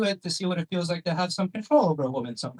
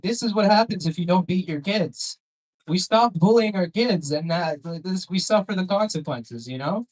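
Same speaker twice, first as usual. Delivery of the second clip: higher-pitched mock outrage; mock indignant rant; 4 semitones higher, 4 dB louder than usual. Comic to crowd about unbeaten kids, mock indignant rant.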